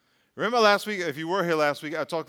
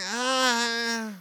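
unimpressed sound; 4 semitones higher than usual. Shown as a demonstration. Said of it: "Do that with me on three".

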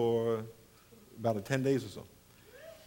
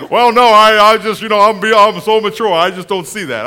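mock-mature reply; 3 semitones higher, 12 dB louder than usual. Mocking the other person's self-important reply.

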